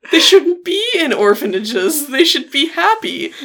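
high, loud, slow naive voice; mocking Malachi. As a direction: lay it on like a sappy do-gooder. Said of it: "fucking Malachi is like".

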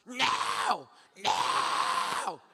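explosive mock shout; loud, over-the-top outburst; hostile rejection. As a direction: yell it to cut them off. Stranger rejects him before he speaks.

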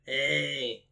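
lightly voiced character impression, drawn out; a proud, half-convincing take on a crewmate; Jinko. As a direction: stretch the name out in imitation. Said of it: "You wanna hear my Jinko?".

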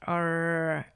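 "Arr" with a clumsy rolled r, like a lion growl; rolled r attempt. Shown as a demonstration. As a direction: try to roll the r in "Arr" and fail. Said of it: "if I try to roll my R's".

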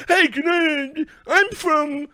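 high, eager, put-on journalist voice; mocking journalist voice. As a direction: play a keen, cringey reporter asking for tweets. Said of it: "saw a tweet and went".

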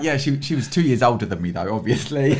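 lightly exaggerated British nanny accent; a hint of prim British; put-on British accent. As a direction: casually show off a British accent. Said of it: "This accent as well".

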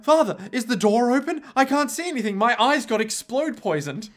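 high, lost and pleading; mock blinded guard. Blinded guard calling for the priest, high mock plea. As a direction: call out blindly for him. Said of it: "The guard's literally like".

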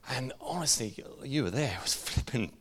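a mild catch of real tears, half laughing; fighting tears. Real, not acted. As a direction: hold back tears while telling it. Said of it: "stop crying".

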